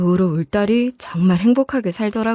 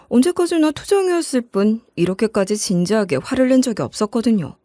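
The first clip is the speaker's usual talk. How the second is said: ordinary delivery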